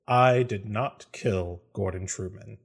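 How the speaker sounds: slow, reluctant statement; weary resignation. Acted. Ormus stepping into the zone of truth, resigned. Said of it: "sighs very deeply and steps forward".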